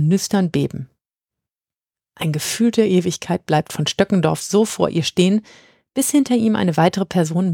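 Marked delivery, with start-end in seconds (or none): none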